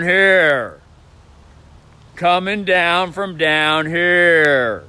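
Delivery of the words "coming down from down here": from the belly. Shown as a demonstration. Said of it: "speaking down from here, the belly".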